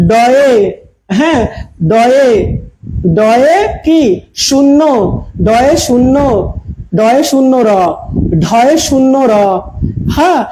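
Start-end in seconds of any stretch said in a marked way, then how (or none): 0.1-0.5 ডয়ে said alone with a rising end; slow letter naming. Shown as a demonstration. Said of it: "কিন্তু এটাকে আমরা বলি". 1.9-9.3 halting, piece by piece, with long pauses after ডয়ে; slow letter naming. Shown as a demonstration. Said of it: "কিন্তু এটাকে আমরা বলি".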